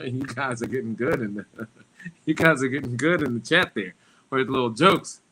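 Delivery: laughing. Real, not acted. Laughing at chat jokes.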